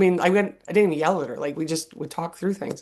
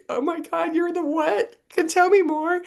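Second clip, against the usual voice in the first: much higher, gushing delight; thrilled; 12 semitones higher than usual. Retold or imitated. Mother praising her daughter's cheering, thrilled. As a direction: squeal it like an overjoyed mom.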